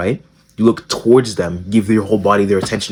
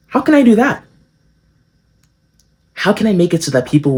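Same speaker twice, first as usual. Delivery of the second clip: mock eager; 10 semitones higher than usual. Real, not acted. Mock scheming question.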